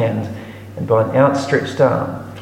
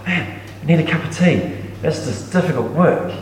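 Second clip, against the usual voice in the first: softer, lightly tired aside; mock-weary God; 4 dB quieter than usual. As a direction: play a worn-out worker longing for tea. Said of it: "was God really that exhausted".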